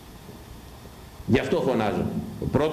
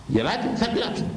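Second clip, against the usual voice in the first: put-on high, ominous voice of the old elder; elder's warning; 10 semitones higher than usual. (ψηλή απειλητική φωνή γέροντα)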